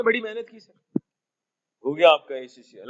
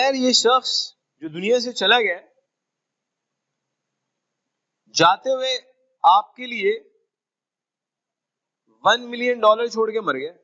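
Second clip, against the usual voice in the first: higher, louder, teasing announcement; mock excited reveal; 4 semitones higher, 3 dB louder than usual. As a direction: build up the big news with glee. Stranger reveals inheritance.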